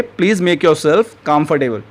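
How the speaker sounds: very slow, each word spaced out for learners; slow teaching model. Shown as a demonstration. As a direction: say it slowly and clearly like a teacher modeling a phrase. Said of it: "तो English में आप कहेंगे".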